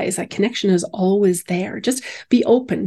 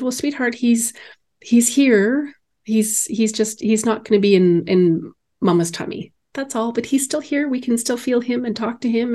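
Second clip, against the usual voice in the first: put-on tender, higher mother's voice to a small child; gentle reassurance; 3 semitones higher than usual. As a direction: reassure her gently, a little hesitant. Mother gently consoling young daughter.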